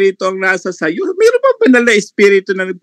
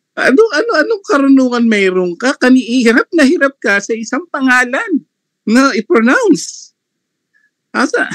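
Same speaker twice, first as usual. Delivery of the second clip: mocking scorn; 5 semitones higher than usual. Real, not acted. Mocking opponent's ignorance.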